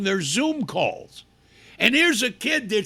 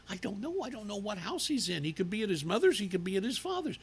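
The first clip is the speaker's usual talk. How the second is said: mock flustered teacher; 10 dB quieter, much faster than usual. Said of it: "The teacher says".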